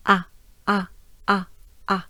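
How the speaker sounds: "ah" wide open, as the French A; short, separate, over-opened "ah"; exaggerated vowel. Shown as a demonstration. Teacher urges learners to open up vowels, exaggerated vowel. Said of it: "exaggerate them".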